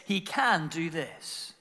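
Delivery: slow, with "can" given full weight; stress on CAN. Shown as a demonstration. Preacher proving the harder miracle is possible, "can" stressed. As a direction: lean firmly on "can" and draw it out.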